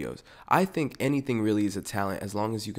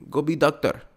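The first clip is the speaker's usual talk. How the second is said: put-on higher, louder accented shout; yelling immigrant parent; 6 semitones higher, 7 dB louder than usual. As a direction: shout it like a furious immigrant mom. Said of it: "whatever country accent this is".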